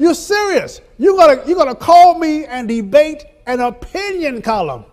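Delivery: high, loud laughing disbelief; retelling laughing at the editor's call; laughing retort. Retold or imitated. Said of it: "I said, That's why I'm laughing".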